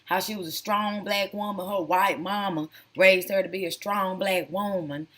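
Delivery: lightly mimicked Tennessee accent; a hint of Tennessee accent. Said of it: "talking with her Tennessee accent".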